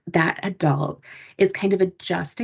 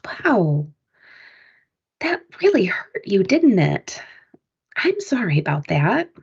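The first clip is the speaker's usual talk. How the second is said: empathetic comfort. Retold or imitated. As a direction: soothe a hurt child with understanding. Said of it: "they have a little more empathy for me".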